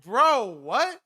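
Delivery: high-pitched mock bafflement; replayed stunned reaction, high; baffled disbelief. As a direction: voice shooting up on what.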